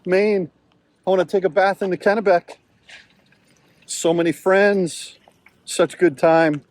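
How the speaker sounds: a light pretend dog voice, begging to stay; voicing the dog. Owner speaking for his happy dog who wants to stay, lightly voiced. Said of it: "She's like".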